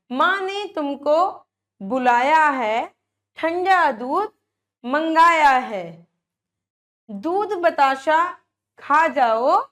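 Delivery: lilting sing-song poem recital; reciting a children's poem. Acted. Teacher reciting Chanda Mama poem to young pupils. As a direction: recite it like a nursery rhyme for kids.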